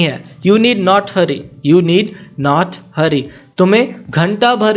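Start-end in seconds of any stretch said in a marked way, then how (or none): 1.7-3.2 slow, careful repeat for learners. Shown as a demonstration. Teacher repeating for learners, slow and clear. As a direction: say it again slowly so students follow. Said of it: "teacher repeats for learners".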